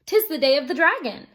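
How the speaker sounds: a hint of trembling dread; shuddering. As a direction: dread in every word. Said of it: "his master shuddered".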